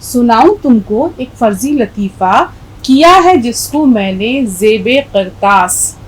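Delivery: measured, slow verse reading; poem recitation. Shown as a demonstration. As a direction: recite the couplet deliberately. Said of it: "اکبر اپنی بات کس طرح سے ہم تک پہنچاتے ہیں". (شعر کی ٹھہری ہوئی قرات)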